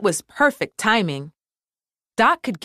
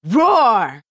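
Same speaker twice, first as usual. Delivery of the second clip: louder growled roar; 3 semitones higher, 4 dB louder than usual. A narrator's reading. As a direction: let the word roar out. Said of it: "let out a loud".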